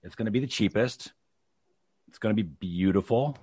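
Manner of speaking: mock-confident sales promise, spaced out; sarcastic. Son parroting the candidate's healthcare promise to his mom, sarcastic. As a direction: pretend to promise it in earnest, pausing after each claim. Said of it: "I'm being quite sarcastic there".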